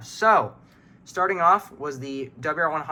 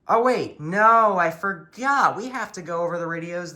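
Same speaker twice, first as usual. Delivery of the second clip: suddenly remembering something forgotten; sudden realization; 4 semitones higher than usual. Real, not acted. Suddenly remembers more radios.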